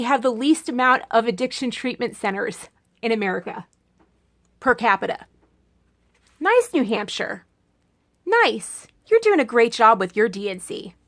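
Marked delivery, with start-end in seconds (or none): 6.4-10.9 dry mock praise; lightly sarcastic congratulations; sarcasm. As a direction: praise them with a sneer underneath. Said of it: "that was called sarcasm".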